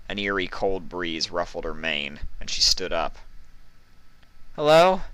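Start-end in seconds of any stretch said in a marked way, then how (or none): 4.6-5.0 high, loud call into emptiness. Acted. Vinyl calls out in a dark stone room, loud. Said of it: "she called out".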